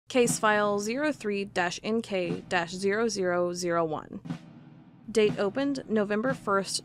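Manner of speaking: measured, steady report read in an even official tone; case file reading. Acted. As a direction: read it like an old government file, calm and matter-of-fact. Reads out the old case file.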